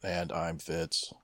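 slow, flat robotic name drop; robotic announcer voice, very slow. Pretend. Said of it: "Did you notice how I said my name, all robotic and whatnot?".

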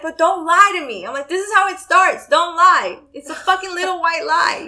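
retold heated scolding. Retold argument with boyfriend.

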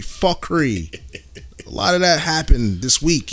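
fuckery in a light island lilt; West Indian accent. Shown as a demonstration. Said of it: "You hear my fake West Indian voice".

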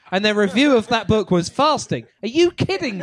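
laughing through the punchline; giggling as he quotes it. Real, not acted.

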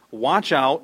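warning. Acted. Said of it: "he said to them".

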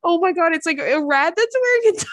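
high-pitched, squealing through laughter; cracking up. Real, not acted. Host describing a possum in a diaper, cracking up. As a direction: struggle to get it out while laughing. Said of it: "I don't think I've laughed that hard".

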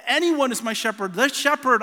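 loud, high, eager sheep voice; voicing sheep who hear their shepherd, calling out loud and high. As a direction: cry out like a sheep that knows its shepherd. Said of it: "And they recognize".

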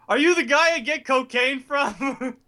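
high, slow, wide-eyed innocent ask; slow, high, naive question to the bartender; mock clueless Kyle. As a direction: play him guilelessly sincere asking for drugs. Imitating Kyle at the bar.

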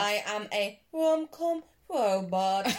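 slow, flat robot voice. Acted. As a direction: speak like a little robot. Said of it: "that's my robot vo- voice".

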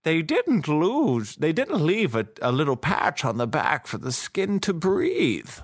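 high-pitched, put-on Bond voice; hammed-up secret agent quote; James Bond impression. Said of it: "That's what he says".

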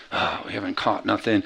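low, soft mock grumble; acted-out frustration, kept low and quiet; frustrated. Fishermen back with an empty catch, frustrated. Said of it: "They're all frustrated".

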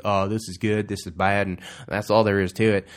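a quick mock Southern yokel verdict; Southern drawl. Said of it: "Don't know why I went Southern for that".

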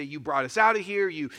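mock angry crowd, building to a loud shout; hammed-up furious Israelites shouting at Moses; angry mob. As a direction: blame Moses, rising up to a yell. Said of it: "They're mad at Moses".

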